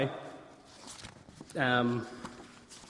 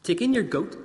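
a hint of a wise old man; lightly voiced kindly old sage; 5 semitones higher than usual.

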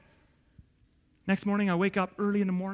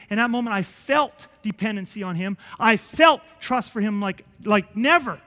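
ordinary talk, nothing marked

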